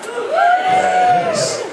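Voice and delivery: shrill camp yes; high squeal. Acted.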